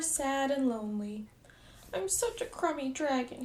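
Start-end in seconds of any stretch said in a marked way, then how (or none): 1.9-3.4 mild sob. Acted. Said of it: "he sobbed".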